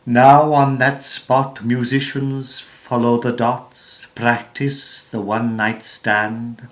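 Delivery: measured, declamatory verse reading with swells on key phrases; theatrical poetry reading, pausing between phrases; poem recitation. Acted. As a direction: recite it like stage verse, leaning into the stressed words.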